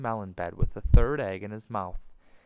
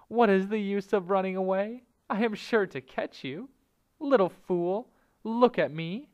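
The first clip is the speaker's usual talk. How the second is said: high-pitched, commanding snake; menacing cobra; 10 semitones higher, 4 dB louder than usual. A narrator's reading. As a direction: taunt your prey as the cobra.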